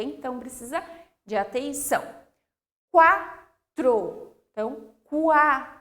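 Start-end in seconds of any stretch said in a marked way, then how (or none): 2.9-4.3 quatro as kwa-tro, louder, u heard; sounded U. Shown as a demonstration. Teacher modelling quatro, louder, U pronounced. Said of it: "Aí eu pronuncio". 5.0-5.8 qua drawn out as cu-a; sounded U. Shown as a demonstration. Teacher isolating the syllable qua, u pronounced. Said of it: "Aí eu pronuncio".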